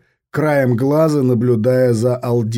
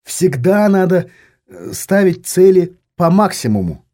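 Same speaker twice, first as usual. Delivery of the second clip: lecturing, higher pitched tone; instructive; 4 semitones higher than usual. Acted. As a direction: set him straight like a teacher. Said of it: "наставительно сказала Жанна".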